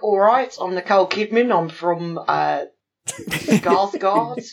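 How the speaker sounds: lightly mocked Australian accent; a hint of put-on Aussie; Nicole Kidman. Joking about the actress in the film, light Australian accent. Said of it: "She's just like".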